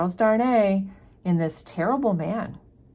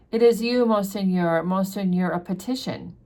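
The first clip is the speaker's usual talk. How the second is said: a mild plea, rising at the start; lightly voiced peasant woman begging; pleading; 2 semitones higher than usual. Peasant woman flagging down the carriage, mildly pleading. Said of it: "a plea".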